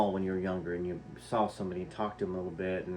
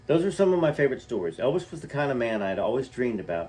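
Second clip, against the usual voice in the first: story reading. A narrator's reading. Reads memoir passage aloud.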